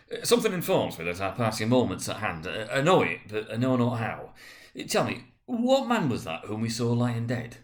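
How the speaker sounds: put-on uneasy old miser pressing the ghost; a hint of anxious Scrooge. Scrooge speaking to the spirit.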